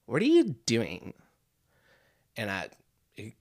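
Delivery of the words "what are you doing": slow mock-baffled question with a pitch jump; retold puzzled wife, drawn out; wife's bewildered question. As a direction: imitate a baffled wife, stretching the words. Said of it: "she looks me in the eye and she says".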